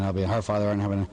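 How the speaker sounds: fast, gabbling the prayer by rote; rattled-off prayer. Retold or imitated. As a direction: rush through it like a chore. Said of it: "say these prayers really, really fast".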